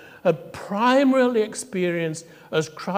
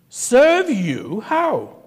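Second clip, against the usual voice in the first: surprised question; 7 semitones higher, 4 dB louder, much slower than usual. Retold or imitated. Minister taken aback in story.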